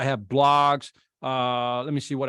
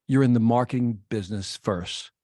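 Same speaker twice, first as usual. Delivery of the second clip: calm; 4 semitones lower than usual. Retold or imitated. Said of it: "Here's what he says calmly".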